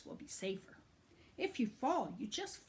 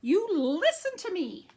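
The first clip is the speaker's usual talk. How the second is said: higher, louder stern command; stern dad; 9 semitones higher, 8 dB louder than usual. Acted. Dad scolding son, loud stern command. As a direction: lay down the law like a dad. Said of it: "His dad's saying".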